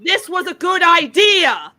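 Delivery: slow, emphatic indignant question; exasperated rant. Real, not acted. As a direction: draw out the question in disbelief. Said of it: "I have to go on a rant".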